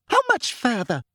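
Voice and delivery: high-pitched, mildly cross demand; angry demand. A narrator's reading. Umbridge calling from behind Harry, mildly angry. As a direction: demand it with a touch of anger. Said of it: "demanded Umbridge angrily from behind him".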